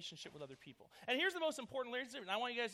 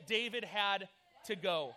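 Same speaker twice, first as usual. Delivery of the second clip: mock threat; 5 dB louder, slower than usual. Mock vengeful punchline.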